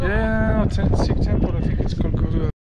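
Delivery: put-on French accent with Gurdwara said ko-da-ra, uvular r; mock French accent. Repeats the temple name for visitor, French accent. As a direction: keep up the fake French guide bit. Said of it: "I am your French guide".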